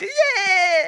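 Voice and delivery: high mock cheer; esitetty riemuhuuto. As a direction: squeal with put-on glee. Acted glee at slide's end. (teeskennelty kimeä riemu)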